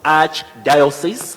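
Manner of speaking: "archdiocese" said very slowly with ch, as in church; pronunciation demo. Shown as a demonstration. Teacher modelling the word for viewers, slow demo. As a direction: draw out "archdiocese" with a ch sound. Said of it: "pronounced as arch".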